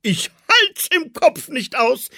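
hoch und laut begeistert. A narrator's reading. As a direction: freu dich mit. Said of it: "klatschte in die Hände".

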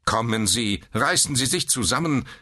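high, imperious nurse's order; sharp rebuke. A narrator's reading. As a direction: tell him off sharply. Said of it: "herrschte die Schwester ihn an". (herrisch angefahren)

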